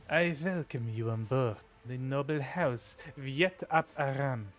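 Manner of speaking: put-on measured, lightly Russian-accented formal welcome. Governor formally welcomes the new arrival, Russian accent. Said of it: "I have to make them Russian".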